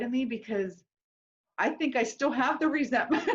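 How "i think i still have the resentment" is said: laughing admission. Real, not acted. Admitting lingering resentment, laughing.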